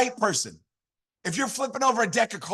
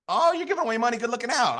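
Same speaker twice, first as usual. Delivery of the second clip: higher-pitched, lightly voiced delight; imitated eager taker; 4 semitones higher than usual. Passerby thanking a man handing out money, mock eager. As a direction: play someone pleased at free money.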